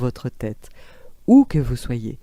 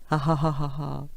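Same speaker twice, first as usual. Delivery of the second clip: smiling ha ha; 6 dB quieter than usual. Shown as a demonstration. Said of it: "commissures des lèvres".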